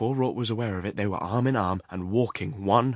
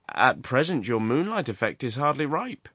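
higher, musing character voice; lightly voiced character; 5 semitones higher, 3 dB louder than usual. A man remarks on the moonlight to his companion, lightly acted. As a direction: voice his observation with lifted, swooping pitch.

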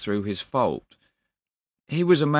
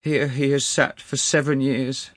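high, loud, anguished pleading; distraught clerk; 6 semitones higher, 5 dB louder than usual. A narrator's reading. Weeping clerk tells of begging his master, distraught. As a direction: pour it out in grief.

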